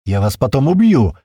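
loud angry yell; angry shout. Acted. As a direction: bellow a threat from the back seat. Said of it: "Орёт там же сзади Слива".

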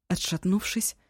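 ordinary delivery

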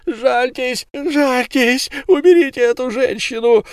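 high, loud, desperate cries of the trapped man; wounded werewolf screaming at the crowd; screaming in pain. Acted. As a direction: howl for mercy through unbearable pain. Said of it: "от нестерпимой боли крича".

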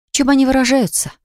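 high mocking question; Eva scoffing at her fiancé's feelings, mocking high; scornful snort. A narrator's reading. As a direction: scoff at him, pitched well up. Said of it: "фыркнула Эва".

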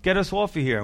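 lightly acted jeer; mocking thief. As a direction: taunt like a jeering thief. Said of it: "would be mocking him and saying".

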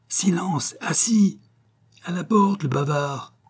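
the whole pit hollering at the chatterer; crowd yelling. A narrator's reading. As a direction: theatre audience yelling at a talker to shut up. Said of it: "hurla le parterre d'une seule voix".

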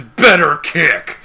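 loud, drawn-out words breaking into laughter; slow, high mock yell; comic sound-effect shout. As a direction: boom it out like a comic-book effect. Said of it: "the onomatopoeia is".

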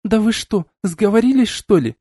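high indignant protest; can't believe what they're saying. A narrator's reading. Woman outraged at accusation. (возмущённо, высоким голосом)

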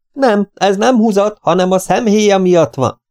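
high, slowed correction. A narrator's reading. Correcting deaf old man. (emelt hangon magyarázva)

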